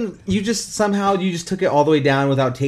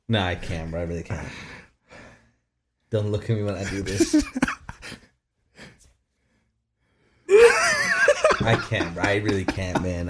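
after laughing hard; 5 semitones lower, 4 dB quieter, faster than usual. Real, not acted.

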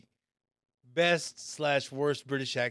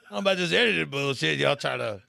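laughing protest; 2 semitones higher, 4 dB louder than usual. Retold or imitated. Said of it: "And I was like".

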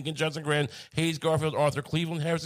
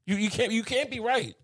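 raised, insistent voice; loud sharp voice; 6 semitones higher than usual. Real, not acted. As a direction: push it, sharp and high. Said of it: "why are you yelling at me".

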